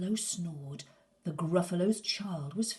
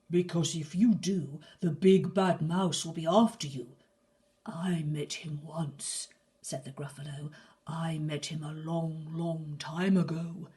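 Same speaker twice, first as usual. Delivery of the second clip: louder, gruff-voiced father warning; a lightly voiced monster dad; Gruffalo father; 5 dB louder than usual. Gruffalo warns his child about the mouse, gruff.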